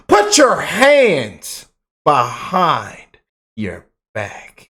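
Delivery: slow, commanding arrest order with a little bass; hammed-up slow cop command with some confidence; mock police voice with bass. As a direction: play a confident cop cuffing him. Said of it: "with a little bass in my voice".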